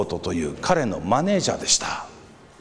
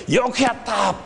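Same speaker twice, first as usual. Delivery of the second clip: higher mock cheer in an imitated crowd voice; 9 semitones higher than usual. Crowd cheers the tightrope walker. (群衆の歓声をまねて)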